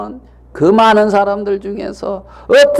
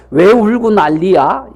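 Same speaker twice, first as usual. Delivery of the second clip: mock callous retort. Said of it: "이러면은 됩니까".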